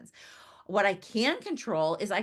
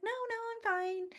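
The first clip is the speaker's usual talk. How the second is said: appraiser's polite no; 6 dB quieter, faster than usual. Retold or imitated. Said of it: "She's like".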